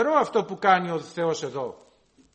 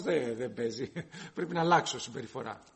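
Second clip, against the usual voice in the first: put-on laughing child reply; 7 semitones lower, 6 dB quieter than usual. Child's reply retold in sermon.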